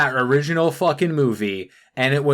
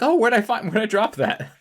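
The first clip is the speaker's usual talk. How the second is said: mocking ditzy fairy; 7 semitones higher than usual.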